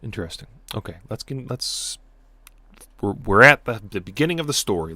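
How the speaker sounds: ordinary delivery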